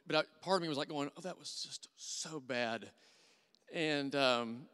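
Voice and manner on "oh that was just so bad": slow regretful murmur. Retold or imitated. Inner voice second-guessing himself.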